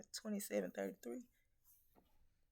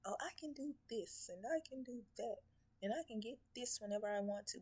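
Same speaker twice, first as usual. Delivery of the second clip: mocking boast; 4 semitones higher than usual. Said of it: "You think you can get anything you want".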